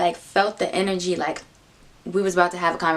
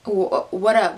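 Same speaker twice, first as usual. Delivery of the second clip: stuttering greeting; slower than usual. Retold or imitated. Guy getting in the car already nervous, imitated stutter. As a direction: imitate a stammered hello. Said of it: "this nigga stuttering".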